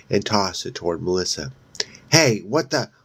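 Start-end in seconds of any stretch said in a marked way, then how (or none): 2.1-2.9 sudden higher, louder startled outburst; startled cry. A narrator's reading. Paul cries out as the gun is knocked away, startled. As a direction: jolt out a surprised yelp. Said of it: "Paul cried".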